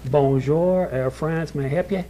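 imitating a Southern receptionist attempting French; Southern-accented French greeting. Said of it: "give a little bit of an accent".

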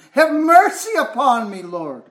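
high-pitched retold plea, falling away on the last word; crying out. Preacher voices lost sheep calling the Lord, crying out. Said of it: "is crying out to him".

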